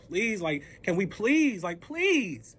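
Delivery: drawn-out pleading, rising on each please; imploring, increasingly insistent; begging. Retold or imitated. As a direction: stretch out every please in a retold plea. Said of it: "I'm begging. I'm like".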